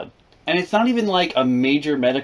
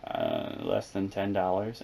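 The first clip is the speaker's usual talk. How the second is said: meek answer; 5 semitones lower, 12 dB quieter than usual. Retold or imitated. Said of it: "I was like".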